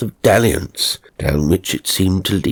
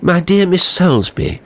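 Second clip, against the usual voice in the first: higher, louder gallant hello; eager greeting; 11 semitones higher, 4 dB louder than usual. Acted. The dead man eagerly greeting the lady he admires, higher and louder. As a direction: hail her with delight.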